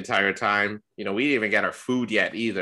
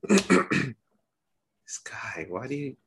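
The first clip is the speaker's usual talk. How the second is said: unvoiced teasing whisper about the friend; whispered aside; 4 semitones higher, much slower than usual. Real, not acted. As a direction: whisper it sideways, half to yourself.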